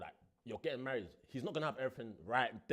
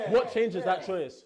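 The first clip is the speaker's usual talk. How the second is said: emphatic; 5 semitones higher, 11 dB louder, much slower than usual. Real, not acted. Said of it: "repeated for emphasis".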